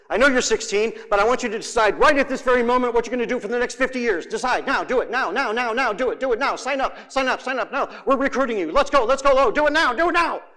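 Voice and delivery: hammed-up pressure, rushed then rising; dramatic pushy adult. Preacher voicing adults rushing teens, hammed-up urgency. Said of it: "I'm being dramatic".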